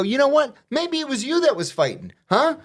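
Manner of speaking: high defiant jab; mock accusing. Inmate taunts the lieutenant, high defiant. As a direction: turn the accusation back on him.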